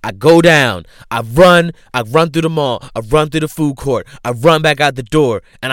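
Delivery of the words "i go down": normal talking voice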